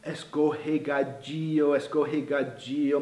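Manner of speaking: slow, careful practice repetition; devagar. Shown as a demonstration. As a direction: say escorregadio slowly and softly, drawn out. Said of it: "falando devagar". (falando devagar, com cuidado)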